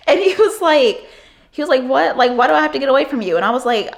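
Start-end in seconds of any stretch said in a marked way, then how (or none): 1.8-3.4 higher, fast defensive whine; a creep acting innocent, quick and high; indignant Chris. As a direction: play him baffled and whiny.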